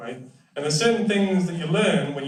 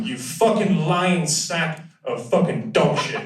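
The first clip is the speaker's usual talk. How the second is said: mock Geordie insult; 3 semitones higher, slower than usual. Shown as a demonstration. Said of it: "we say".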